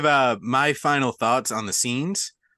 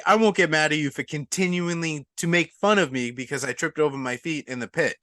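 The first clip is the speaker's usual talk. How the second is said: raised, emphatic sarcastic-sounding apology; wounded mock apology; 4 semitones higher than usual. Character apologising to people mocking his fall, wounded mock apology. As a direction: protest your good intentions to the mockers. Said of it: "And you're like".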